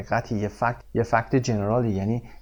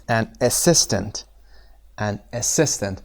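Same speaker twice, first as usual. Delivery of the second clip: "assistant" with SIS stressed; stress on second syllable; slower than usual. Shown as a demonstration. Teacher models "assistant" for students, SIS stressed. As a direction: lean on the middle of "assistant", the SIS. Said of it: "استرس روی سس هست".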